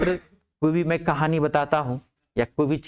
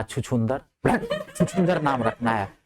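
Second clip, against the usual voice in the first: laughing; 3 semitones lower than usual. Retold or imitated. Jokingly suggests silly names.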